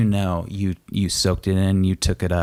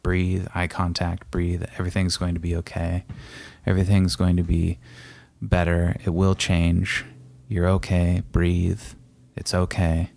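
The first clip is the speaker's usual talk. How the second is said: calm coaching. Shown as a demonstration. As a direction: coach a panicking partner, gently. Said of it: "So I talk you through that".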